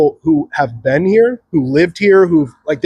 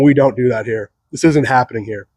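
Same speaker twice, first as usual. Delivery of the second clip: a lower, stern lawman voice; low firm Texan; 5 semitones lower than usual. Retold or imitated. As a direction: lay down the law, low and steady. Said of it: "and saying".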